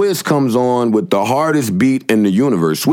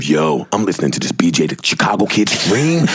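friend hyped; 5 semitones lower than usual. Retold or imitated. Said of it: "it's me".

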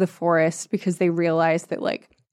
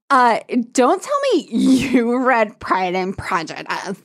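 mock flirty quote; 3 semitones higher, slower than usual. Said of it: "she's like".

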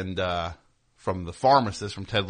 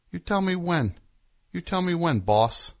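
mock deference; 9 semitones higher, 4 dB louder than usual. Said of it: "So I just stood there".

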